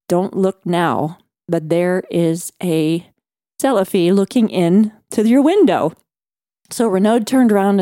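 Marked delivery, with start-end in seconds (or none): 0.1-5.9 ventriloquist act. Retold or imitated. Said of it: "in my best heartfelt ventriloquist act".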